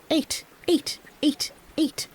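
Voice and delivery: soft, high croaking count; frog croak as words. A narrator's reading. Frogs heard by the peasant as counting, soft high croak. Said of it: "which in his language sounded like".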